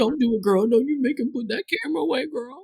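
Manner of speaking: sassy auntie voice. Retold or imitated. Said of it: "We're like".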